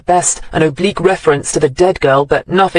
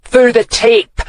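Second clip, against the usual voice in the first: high, loud outraged screech; 7 semitones higher, 3 dB louder, slower than usual. A narrator's reading. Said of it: "the rabid mole screeched".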